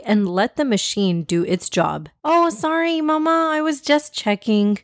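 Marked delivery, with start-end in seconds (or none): 2.2-4.8 put-on young girl voice. A narrator's reading. Daughter voiced in story.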